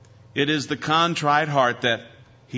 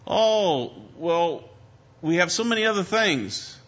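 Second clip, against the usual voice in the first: higher-pitched, coaxing waiter in a skit; lightly voiced waiter; 5 semitones higher than usual. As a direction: lightly play a waiter pitching other dishes. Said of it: "the waiter would say".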